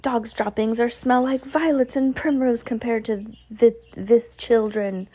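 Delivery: put-on emphatic, accented witch leader; disgusted witch addressing followers; lightly voiced Grand High Witch. Voicing the ranting witch leader.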